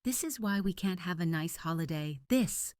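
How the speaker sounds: high-pitched mother's lament; wailing. A narrator's reading. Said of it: "Mom wailed".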